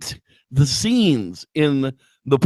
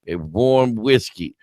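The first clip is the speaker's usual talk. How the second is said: put-on old hag barmaid; much slower than usual. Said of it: "the old hag is like".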